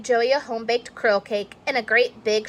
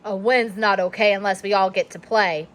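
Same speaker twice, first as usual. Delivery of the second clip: stern coach; faster than usual. Acted.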